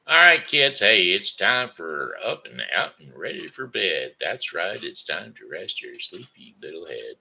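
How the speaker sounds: a lightly voiced kids' host calling out; cheery bedtime host welcoming the kids; TV Grandpa. A TV grandpa calling the kids to bed, cheery. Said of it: "it's T V Grandpa".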